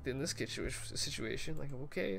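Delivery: high, fast, incredulous rant; baffled rant. Retold or imitated. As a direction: squeak out your bewilderment at a weird message. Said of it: "I was like".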